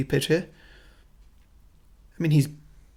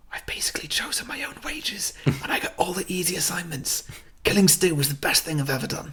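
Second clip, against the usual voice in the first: hushed, gleeful-secret whisper to an interviewer; confiding whisper; 4 semitones higher, 5 dB quieter than usual. Acted. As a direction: whisper it into the camera. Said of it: "leans into the camera and whispers".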